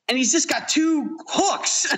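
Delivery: slow amused delivery breaking into laughter; laughing. Real, not acted. Laughing at grim ending.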